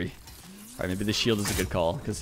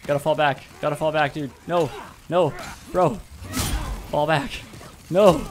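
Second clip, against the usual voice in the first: urgent shouted commands, louder and higher; shouting orders over battle; 7 semitones higher, 5 dB louder than usual. Real, not acted. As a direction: bark retreat calls at a teammate. Shouting at teammate mid-fight.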